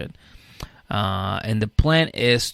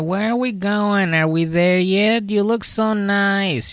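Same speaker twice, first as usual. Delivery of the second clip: much higher, slow, gushing woman's voice; chattering high voice; 10 semitones higher, slower than usual. Retold or imitated. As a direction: gush over him like an eager girlfriend. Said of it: "she's like".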